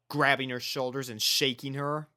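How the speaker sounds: usual speaking voice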